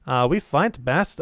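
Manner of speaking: proud dwarf with swooping, drawn-out vowels; halting, heavily accented dwarf. Acted. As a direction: declare it as a mountain dwarf. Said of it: "we don't get to do dwarf voice".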